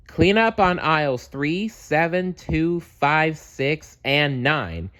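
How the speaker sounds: high announcer call down the aisles. Acted. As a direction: call the aisles out like a store speaker. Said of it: "called Cheer Bear".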